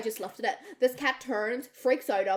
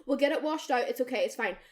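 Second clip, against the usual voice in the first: reassuring; 4 semitones higher, much faster than usual. Retold or imitated. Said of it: "We're going".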